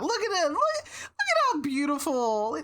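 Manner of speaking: high, laughing through tears; delighted teary laugh; laughing fondly. Real, not acted. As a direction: gush over the photo while laughing. Laughing over the cat photo.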